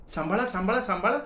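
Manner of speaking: high, urgent warning cry; alarmed cry. Acted. Shubha warns Gaju his plate is spilling, high alarmed cry. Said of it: "भानावर येत ओरडली".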